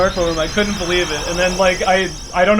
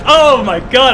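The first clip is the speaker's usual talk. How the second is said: elated disbelief; 5 semitones higher, 6 dB louder, slower than usual. Real, not acted. Disbelief after record.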